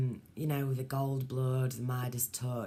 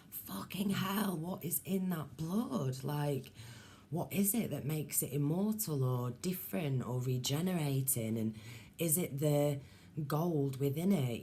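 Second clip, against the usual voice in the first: amazed inner thought; 2 semitones higher than usual. Retold or imitated.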